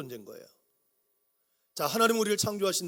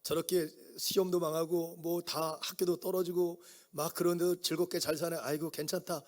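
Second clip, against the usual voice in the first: gentle parent; 4 dB quieter than usual. Retold or imitated. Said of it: "우리 부모님들이 뭐라 하죠".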